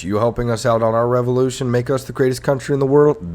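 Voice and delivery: high, loud mock indignation; hammed-up outrage; ranting taunt. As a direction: throw it at them as a scornful question. Continues mock tirade at France.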